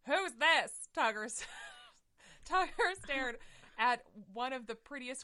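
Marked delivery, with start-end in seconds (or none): 0.1-0.9 higher, louder mock-curious question; a cat eyeing the newcomer; intrigued tomcat. Tugger spotting the pretty queen, hammed-up curiosity.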